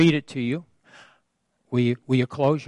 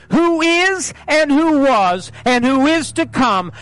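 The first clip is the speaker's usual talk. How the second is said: lightly imitated movie-hero threat speech; a preacher's attempt at a measured, menacing warning; deliberate, declaimed defiance addressed to the devil; Liam Neeson; 8 semitones higher, 3 dB louder than usual. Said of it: "do it in Liam Neeson's voice".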